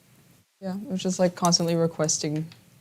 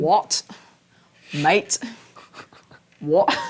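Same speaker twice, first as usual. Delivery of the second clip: louder incredulous what with rising tune; indignant disbelief; 5 dB louder, much slower than usual. Real, not acted. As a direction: protest in mock outrage. Indignant at accent claim.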